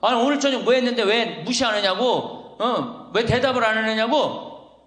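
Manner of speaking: indignant retold scolding; mock angry yell. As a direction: act out a fed-up husband yelling at his wife. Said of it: "너무 열받아갖고 부엌에 가갖고 이제 소리를 지르는 거예요".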